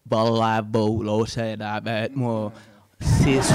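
mangled "Bravo, l'autre, la bête, moi, c'est sûr", word by word; garbled French. Retold or imitated. Former student recalling a French phrase, badly garbled. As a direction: imitate a learner butchering French into nonsense syllables. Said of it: "she's gonna say".

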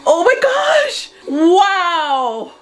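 high, loud, slow sob of joy; crying shout. Real, not acted. Vlogger sobbing happily at the win.

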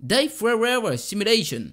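very slow mock German accent; drawn-out, unsure attempt at German pronunciation. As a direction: sound out the German title, stretching it syllable by syllable. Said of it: "Comment que ça se prononce ça?".

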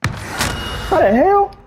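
slow, high stunned disbelief. Real, not acted. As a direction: drag it out, baffled. Shot through a house.

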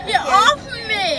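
crying yell. Real, not acted. Crying kid pushing sibling away.

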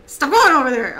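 loud repeated order; scolding shout. Real, not acted. Player to straying gnomes, scolding shout.

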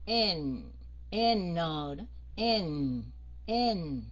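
N drawn out, falling low, humming in the nose; buzzing nasal N. Shown as a demonstration. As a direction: make the nose vibrate on the end of N. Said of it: "nghe cái lỗ mũi run run". (N ngân xuống, mũi run run)

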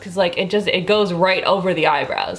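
through a wet sheet mask; talking with face mask on. Real, not acted. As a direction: lips moving under mask. Seen 0: Thin wet sheet mask covers face and mouth area while she talks.

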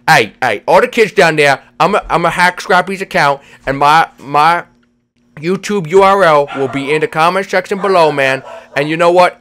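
emphatic pitch with slushy s sounds; pushy cartoon promoter. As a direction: hustle the viewers in a goofball voice. The speaker addresses the kids watching.

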